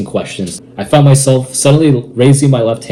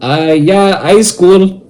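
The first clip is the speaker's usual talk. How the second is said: high dopey answer; ditzy young woman; 8 semitones higher, 4 dB louder, much slower than usual. Retold or imitated. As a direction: sound dim and unsure. Dim young juror answers.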